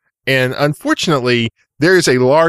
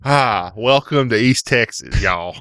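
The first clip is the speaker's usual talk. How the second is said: put-on East Texas accent; 2 semitones lower than usual. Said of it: "when you dropped into it".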